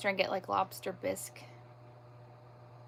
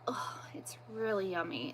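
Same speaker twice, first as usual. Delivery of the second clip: hushed, savouring whisper; whispered delight; 7 dB quieter than usual. Real, not acted. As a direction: whisper it like a treat. Savouring the smoothie taste.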